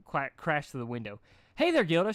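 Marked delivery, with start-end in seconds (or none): 1.6-2.1 high, louder, bubbly pony greeting; cheerful ditzy pony voice, much higher; high cheery Derpy voice. A narrator's reading. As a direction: pop in bright and loud after the crash.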